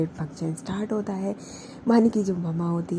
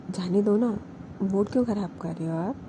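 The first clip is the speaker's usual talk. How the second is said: lovingly; 3 dB quieter than usual. Retold or imitated. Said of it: "बहुत प्यार से बोलती है".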